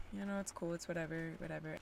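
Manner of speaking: soft, easygoing shrug of a voice; casually brushing it off; breezy and dismissive. Retold or imitated. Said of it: "but I just am like".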